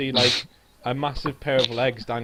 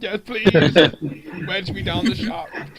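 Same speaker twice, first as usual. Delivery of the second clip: eager, breathy mock plea; 6 semitones higher, 7 dB louder, slower than usual. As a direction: beg eagerly to be wedged.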